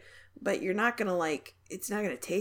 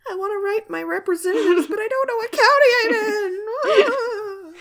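high, loud fake sob, stretched out; hammed-up weeping about counties; mock crying; 14 semitones higher, 10 dB louder than usual. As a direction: wail it like a pretend tragedy. Mock despair about representatives.

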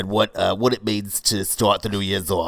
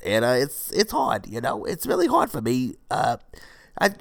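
getting emotional; 3 semitones higher than usual. Pretend. Yoga teacher pleading for students, getting emotional. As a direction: let the pitch climb as if getting emotional. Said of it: "I'm getting a little emotional".

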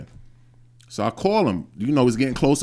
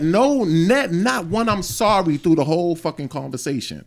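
higher, louder, exasperated outburst; indignant emphasis; 5 semitones higher, 4 dB louder than usual. Real, not acted. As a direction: punch out each word in real indignation. Indignant about father never apologising.

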